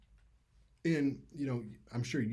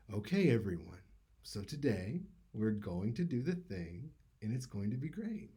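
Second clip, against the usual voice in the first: mock teacher voice. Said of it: "it sounded like".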